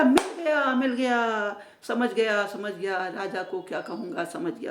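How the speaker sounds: loud start fading to calm; excited discovery. Acted. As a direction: burst out then settle. Third friend's discovery.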